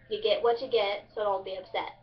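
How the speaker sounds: "get" said as "git" in a Kentucky accent; light Kentucky twang, "get" rhyming with "it"; Kentucky dialect. Shown as a demonstration. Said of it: "I said it in the Kentucky dialect".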